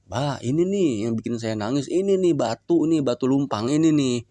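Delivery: lightly voiced daughter grumbling to her father; complaining daughter. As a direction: play the tired daughter venting to her father.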